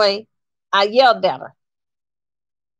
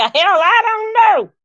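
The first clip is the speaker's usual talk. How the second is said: slow, high, drawn-out hell I don't know; mock shrug; 9 semitones higher, 4 dB louder, slower than usual. Mimicking the husband's shrug, high and drawn out. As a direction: play it dismissive and slow.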